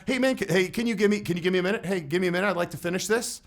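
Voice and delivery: pleading, tentative request that restarts itself; weak tonality. Shown as a demonstration. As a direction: trail off unsure, like you need their approval. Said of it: "if my tonality would have been".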